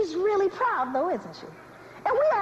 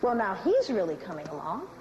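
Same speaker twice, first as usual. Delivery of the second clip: slave master; 6 semitones lower than usual. Acted. Slave master eyeing a slave mother's child, appraising. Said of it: "the slave master walks through".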